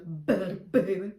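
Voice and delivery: exaggerated, overblown B in "better" and "baby"; too much B. Shown as a demonstration. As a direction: overdo the B at the start of "better" and "baby". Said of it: "too much b".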